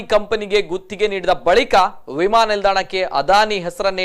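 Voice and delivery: steady, emphatic news anchor delivery; news presenting. Real, not acted. Anchor tells viewers about the airport naming demand, news presenting. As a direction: present the report in measured, projected phrases.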